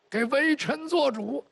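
put-on slow, weak old man begging; a lightly voiced frail minister; feeble plea. Feeble old minister begs empress. (缓慢虚弱的哀求)

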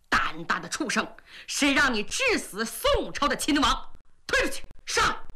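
bang the table and bark the order; the Jin prince, enraged, orders his general dragged out; angry order. Acted. Wuzhu slams table, orders execution.

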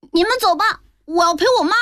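put-on a boy digging in his heels; child voice. A narrator's reading. Child refuses grandmother.

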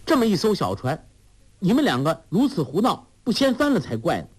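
put-on high, quick girlish scolding; Huang Rong scolding. A narrator's reading. 黄蓉责备两人在小船上胡闹，高声急促. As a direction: chide them for fooling about. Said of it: "黄蓉说".

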